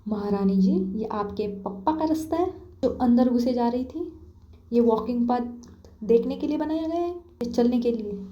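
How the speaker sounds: high angry tone. Acted. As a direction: scold the friend who wandered onto the road. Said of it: "उसी high tone में उसे बोलती है".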